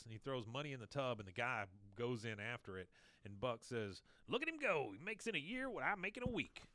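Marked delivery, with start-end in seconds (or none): 4.3-6.6 mock gloating. Buck gloats over the dive.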